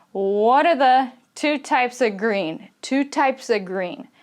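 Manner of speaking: "of" reduced to "uh" between "types" and "green"; schwa in "of". Shown as a demonstration. English teacher modelling reduced words for learners, schwa in "of". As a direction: weaken "of" to a quick "uh". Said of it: "change kinda to a schwa sound".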